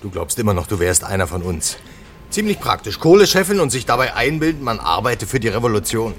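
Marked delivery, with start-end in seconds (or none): 2.3-6.1 jab at him with scorn; sarcastic anger. Real, not acted. Heated argument with boss.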